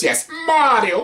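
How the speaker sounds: says the name through a high laugh. Real, not acted. Announcing Mario movie, laughing.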